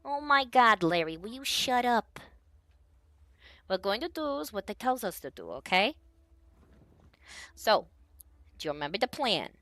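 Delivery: a hint of a squeaky little henchman, exasperated; pipier voice. Short bandit snapping at his big dumb partner, lightly piped. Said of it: "a little bit of a pipier voice".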